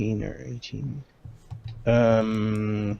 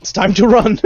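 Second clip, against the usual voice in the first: loud call to run; 8 semitones higher, 8 dB louder, faster than usual. Real, not acted. Rallying party to flee.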